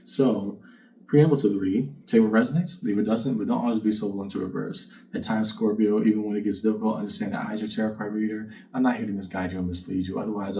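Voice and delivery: normal talking voice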